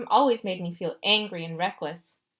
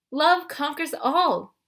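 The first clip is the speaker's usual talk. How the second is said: higher, sweetly confiding goddess; Aphrodite voiced; 7 semitones higher, much slower than usual. A narrator's reading. Goddess of love coaxing Percy, higher and sweet. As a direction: purr like a doting love goddess. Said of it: "Aphrodite promised".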